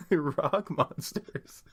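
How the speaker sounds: slow laughing drawl. Real, not acted. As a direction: stretch it out laughing. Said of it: "drawn out laughing".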